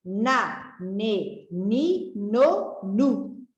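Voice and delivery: each syllable said clearly apart; syllable drill. Shown as a demonstration. Teacher drills pupils on the N syllables, clearly. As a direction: sound out na ne ni no nu for children. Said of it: "vamos trabalhar o som das sílabas".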